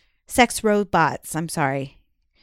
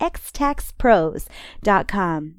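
slow; much slower than usual. Shown as a demonstration.

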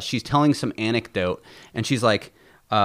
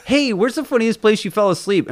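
imitating Tom; 10 semitones higher than usual. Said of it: "Tom's like".

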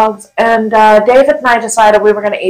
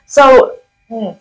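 talking between sips of beer; mid-sip on a beer; while sipping a drink. Real, not acted. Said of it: "Sorry, I'm drinking some beers".

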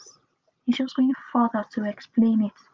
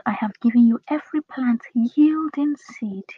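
YIELDING stretched for emphasis; stress on YIELDING. Shown as a demonstration. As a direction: lean on "yielding", drawing the word out. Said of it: "Emphasis on the word yielding".

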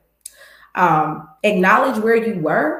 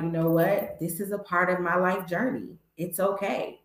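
softer, settled and at peace; calm acceptance; 6 dB quieter than usual. Retold or imitated. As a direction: let it go gently, softer with each line. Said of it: "Tima now is like".

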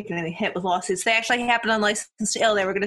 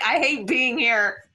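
slow, amused complaint with a laugh in it; laughing through it; slower than usual. Retold or imitated. Imagining being with a band, laughing. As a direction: laugh while grumbling the line.

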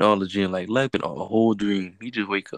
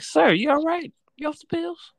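much higher mock-polite question; mock concerned voice; slower than usual. Asking a pacing plane passenger, mock concern. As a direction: play a worried stranger.

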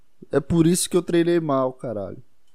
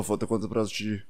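low, thick monster-like voice; gruff morning voice; 5 semitones lower, 3 dB quieter than usual. Shown as a demonstration. He asks the gym woman in his gruff wake-up voice. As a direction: growl it out like you just woke up. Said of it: "Eu falo mais grosso".

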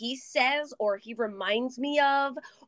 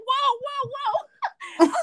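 calming whoa; 14 semitones higher, 3 dB louder than usual. Retold or imitated. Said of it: "And he's like".

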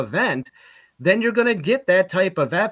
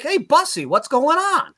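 higher alarmed call up the bus; 11 semitones higher than usual. Retold or imitated. Calling to the bus driver as brakes burn, alarmed. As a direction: shout up front to the driver.

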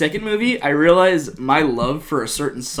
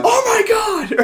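mock shock; 5 dB louder than usual. Reenacting show reaction.

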